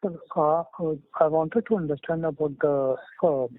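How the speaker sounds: muffled voice, hand over mouth. Real, not acted. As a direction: speak muffled behind a hand. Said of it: "Sorry, your voice is coming very muffled".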